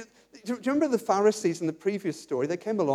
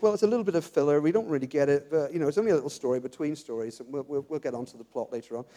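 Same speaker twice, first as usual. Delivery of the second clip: dismissive inner voice; 6 semitones lower, 4 dB quieter, faster than usual. Retold or imitated. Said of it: "we can read this passage and think".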